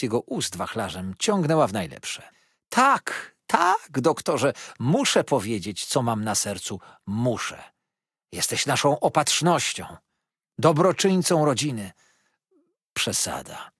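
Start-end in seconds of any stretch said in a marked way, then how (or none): 2.7-11.9 put-on gushing old mother-in-law, pitched higher; sugary, insistent flattery of the doctor; Mrs Markleham. A narrator's reading. (przesłodzona, natarczywa teściowa)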